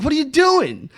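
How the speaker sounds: put-on high yelling old man, lightly done; mock angry grandpa. Grandfather catches kids nailing spikes into tree, mock yell. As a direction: bark it up high like a furious grandpa. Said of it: "He's like".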